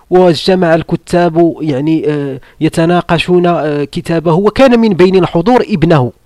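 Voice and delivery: quoting a Saudi sheikh in measured formal Arabic; sheikh's lesson voice. Retold or imitated. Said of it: "قال لك".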